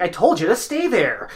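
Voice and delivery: slow, lightly imitated teacher telling-off; mock scolding, without drama; a hint of a dorky teacher reprimand; middle school teacher scolding. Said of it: "that middle school teacher scolding".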